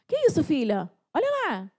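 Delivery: shocked. Retold or imitated. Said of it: "Eu fiquei tão desesperada".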